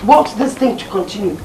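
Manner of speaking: father loudly rejecting the welder suitor; forceful insistence. Acted. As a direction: lay down the law to the family. Father insists on his plan.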